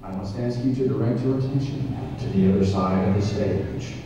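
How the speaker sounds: big boxing-match introduction; ring announcer. Acted. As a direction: hype up the villain to the crowd.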